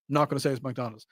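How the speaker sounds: sly quiet aside. Shown as a demonstration. Host naming the chain while pretending not to, softly. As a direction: drop the voice, mock discreet.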